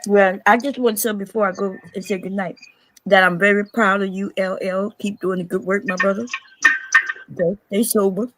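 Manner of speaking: talking around ice cubes; words slurred by ice in mouth. Real, not acted. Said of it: "I have ice in my mouth".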